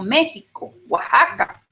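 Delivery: México and Oaxaca with a Spanish J sound; X pronounced like J in "México, Oaxaca". Shown as a demonstration. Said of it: "las X se suena como J".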